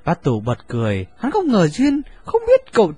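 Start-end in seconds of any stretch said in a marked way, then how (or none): none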